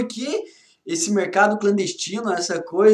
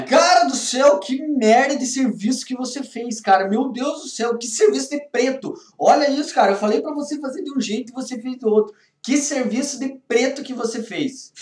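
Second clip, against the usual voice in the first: scolding boss; 3 semitones higher than usual. Acted. Acted boss scolding bad work.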